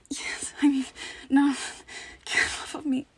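playing helpless, begging; pretend pleading.

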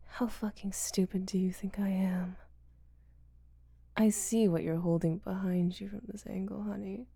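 ordinary talk

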